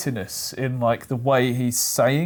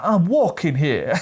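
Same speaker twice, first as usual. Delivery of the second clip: mock New York tough guy, slow and laughing; New York accent; 3 semitones higher than usual. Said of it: "Is that a New York accent?".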